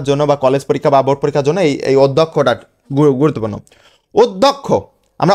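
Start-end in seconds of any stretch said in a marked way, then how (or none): 4.1-4.7 অধ্যক্ষ as "od-dhok-kho" with round o, higher; correct pronunciation. Shown as a demonstration. Teacher models the exam word, অধ্যক্ষ as "od-dhok-kho". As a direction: say অধ্যক্ষ with "oh" in every syllable. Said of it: "অধ্যক্ষ উচ্চারণটা হবে অধ্যক্ষ".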